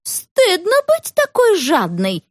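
high, slow scolding cry; woman scolding Sveta in the shop; indignant exclaim. A narrator's reading. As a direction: scold the greedy girl. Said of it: "воскликнула женщина".

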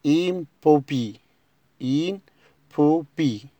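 impopi drawn out very slowly, im-PO-pi; slow model word. Shown as a demonstration. Teacher models the word slowly for pupils. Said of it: "الكلمة رقم تمانية".

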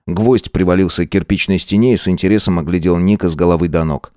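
ordinary delivery

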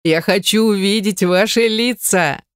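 mild laughing moan; moaning through tears of laughter. A narrator's reading. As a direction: gasp it out mid-laughing fit. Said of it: "сквозь слёзы простонала".

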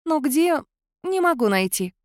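cat spirit unable to find him; puzzled spirit voice. A narrator's reading. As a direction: search aloud, puzzled.

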